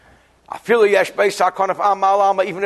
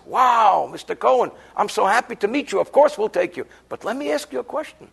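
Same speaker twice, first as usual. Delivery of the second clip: committee man; 5 semitones higher than usual. Retold or imitated. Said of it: "The guy in the committee says".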